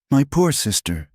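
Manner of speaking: high, mock-sympathetic coo. A narrator's reading. Nafret to her exiled sister before the court, cooing. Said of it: "she cooed".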